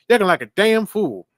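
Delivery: loud, high mock scolding; Chubbs. Coach refusing to accept excuses, mock scolding. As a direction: chide him like an exasperated coach.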